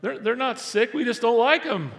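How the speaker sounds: mock the Pharisees' pettiness; lightly hammed-up Pharisee excuse; sulky Pharisees. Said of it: "the Pharisees are going".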